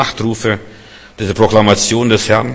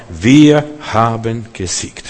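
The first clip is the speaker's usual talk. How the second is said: plain and simple; slower than usual. Acted. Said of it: "ganz schlicht und einfach".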